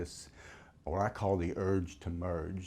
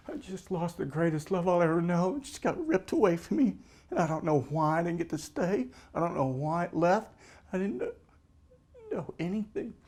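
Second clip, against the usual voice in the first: grieving loss; 9 semitones higher than usual. Retold or imitated. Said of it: "she sees me crying".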